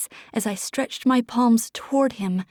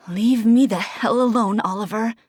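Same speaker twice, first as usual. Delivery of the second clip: growled; 4 dB louder than usual. Acted. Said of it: "I growled".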